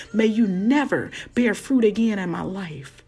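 commanding curse, word by word; laying a curse. Pretend. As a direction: pronounce doom on it. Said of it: "things that we need to curse".

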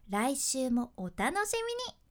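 shape 来週もお楽しみに with pitch movement; pitch contrast. Shown as a demonstration. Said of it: "音の高さを作り出す".

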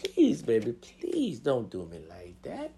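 hushed, slow plea to a partner; soft pleading. Shown as a demonstration. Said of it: "I don't like talking like that. So I'll be like".

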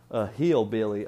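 trying out a hillbilly twang; hillbilly accent. Shown as a demonstration. Vlogger warming up an impression, hillbilly accent. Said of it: "how does a hillbilly".

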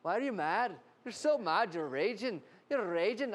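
needling Irishman, lightly put on; mock-Irish goading; imitated Irish accent. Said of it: "I was in Ireland, and the guy kept going".

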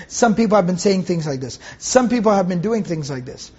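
low, understated reproach; indirect reproach. Acted. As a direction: talk about them, not to them. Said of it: "not addressing them directly".

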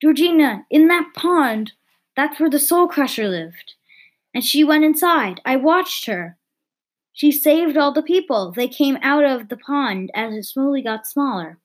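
put-on boy voice. Lewis explains in boy voice.

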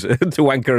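"To Wanker" with the A sound of "Anchor" turned into a W; "To Wanker" said like "To Anchor" run together; mispronounced. Retold or imitated. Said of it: "he said it two more times".

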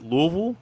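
Louisville said as two syllables, LOO-vul; quiz pronunciation option. Shown as a demonstration. Host offers contestants a choice, Louisville as LOO-vul. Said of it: "How do you pronounce".

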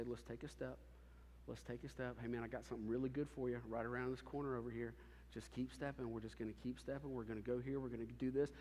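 a soft, reassuring voice leading the way; gentle guiding voice. Acted. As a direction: coax them forward one step at a time. Voicing God gently leading step by step.

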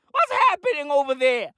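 high, incredulous wail; exasperated cry. Acted. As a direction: cry it out in comic disbelief. Repeats the exasperated question.

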